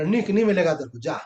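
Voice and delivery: firm loud no. Shown as a demonstration. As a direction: scold your own mind loudly. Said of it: "तो जोर से".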